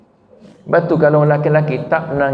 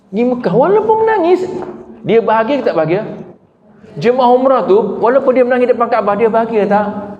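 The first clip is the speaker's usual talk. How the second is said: higher, urgent preacher's voice; impassioned preaching; 8 semitones higher than usual. Acted. Preacher stirring the congregation about weeping at the Kaabah, impassioned. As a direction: lift it up and press the point home to the crowd.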